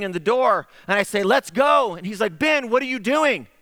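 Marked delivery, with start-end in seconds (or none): 1.2-1.9 high, louder urgent call; retold rallying call. 2.4-3.5 high-pitched incredulous question; retold alarmed protest.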